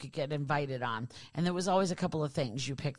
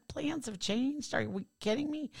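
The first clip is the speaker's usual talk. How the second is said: incredulous mock repeat; 8 semitones higher than usual. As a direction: echo the boyfriend with a laugh of disbelief. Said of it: "he would go".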